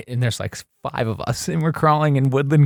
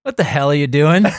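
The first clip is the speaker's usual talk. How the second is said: laughing dad quote; 5 semitones higher, 5 dB louder than usual. Retold or imitated. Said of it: "And he goes".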